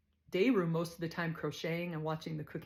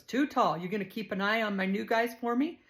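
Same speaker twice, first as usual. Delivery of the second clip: louder, higher officer calling out; lieutenant's voice; 4 semitones higher, 5 dB louder than usual. Retold or imitated. Lieutenant asks Too Tall to watch recruits, louder. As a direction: call over to her like a boss.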